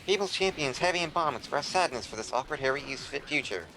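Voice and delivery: lightly voiced old-timey newsreader; a hint of a forties announcer; 1940s newscaster. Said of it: "the nineteen forties newscastery type voice".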